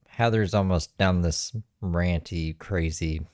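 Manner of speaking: talking while eating; words round a bite of food; mouth full. Real, not acted. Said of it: "I'm just eating while she's finishing up".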